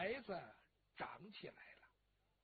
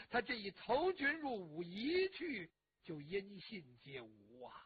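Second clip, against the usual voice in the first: louder, bitter complaint in the father's voice; aggrieved father; 4 dB louder than usual. Acted. Dying father lamenting his son-in-law, loud and bitter. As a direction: hammer out the wrongs he suffered.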